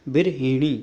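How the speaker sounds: बिरहिणी with a clear "hi" syllable; correct form. Shown as a demonstration. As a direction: sound the middle of बिरहिणी as "hi", long final "nee". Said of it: "को कैसे लिखते हैं".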